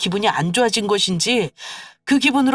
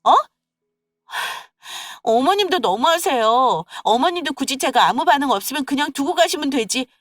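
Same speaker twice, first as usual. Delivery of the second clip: put-on higher, aggrieved young wife complaining; whiny daughter-in-law; 6 semitones higher than usual. Daughter-in-law defending herself to husband and mother-in-law, higher and aggrieved. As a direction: protest to the husband and his mother.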